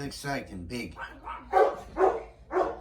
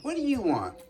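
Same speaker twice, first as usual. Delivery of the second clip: annoyed shout; 8 semitones higher, 4 dB louder than usual. Real, not acted. Woken at 2am.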